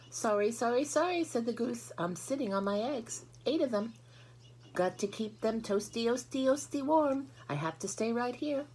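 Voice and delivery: high, cackly goose, repeating herself; fussy goose voice. A narrator's reading. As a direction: play a busy mother goose.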